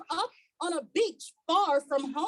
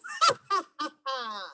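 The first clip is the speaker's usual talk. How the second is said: put-on boyish laugh. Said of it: "he says with a laugh".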